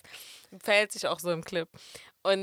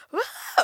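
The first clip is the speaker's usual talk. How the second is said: imitated scream; 7 semitones higher than usual. Imitating the performer's sudden scream.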